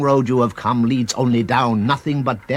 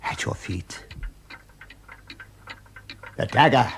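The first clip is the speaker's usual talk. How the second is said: a cold, hushed whisper; sinister whisper. Acted. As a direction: breathe it, drawing his eye to the dagger. Tempter whispers, pointing out the dagger.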